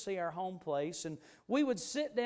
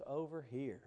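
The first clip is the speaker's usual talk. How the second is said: softer, lower echo of the call; soft recalled call; 4 semitones lower, 7 dB quieter than usual. Retold or imitated. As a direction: say it gently, as a fond memory. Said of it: "when I heard those words".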